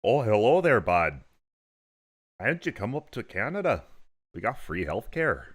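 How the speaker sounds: mock the friendly Canadian neighbour in a bad Canadian accent; a cheery fake Canadian accent; shit Canadian accent. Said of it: "that's a shit Canadian accent".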